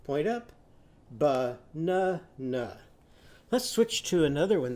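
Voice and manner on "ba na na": "Ba-na-na" slowly with a short u sound; u vowel. Shown as a demonstration. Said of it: "what does his banana say".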